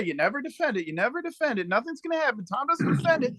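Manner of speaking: high, whiny mockery of critics; mocking whiny voice. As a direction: mimic the doubters, whiny. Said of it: "'cause you guys always say".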